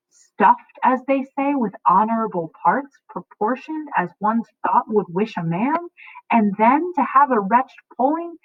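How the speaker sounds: tyrant father laying down the law; furious father. Acted. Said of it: "how the actor Capulet should be delivering".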